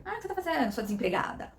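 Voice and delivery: high-pitched mock nagging; nagging father-in-law. Father-in-law taunting her for being unemployed, mock nagging. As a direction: imitate a needling in-law's accusing questions. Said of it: "Meu sogro falar".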